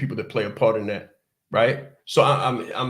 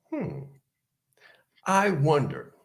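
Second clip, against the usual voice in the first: whispered musing; 3 semitones higher, slower than usual. Retold or imitated.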